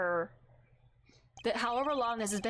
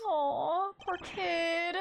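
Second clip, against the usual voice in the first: pitying aw; 5 semitones higher, much slower than usual. Real, not acted. Pitying a sad game character.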